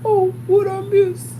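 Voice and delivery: high, slow mock-innocent question; imitating Lucretia. Teacher asks the staring room what she missed, high and slow. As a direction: ask it sweetly, as if nothing happened. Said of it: "she was like".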